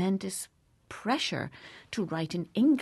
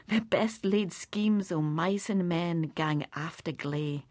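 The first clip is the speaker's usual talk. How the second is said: slow, weighty famous line; poem recitation. Acted.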